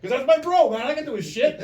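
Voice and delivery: high, loud imitation of a proud pal; insistent self-defence. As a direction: imitate him justifying himself, all worked up.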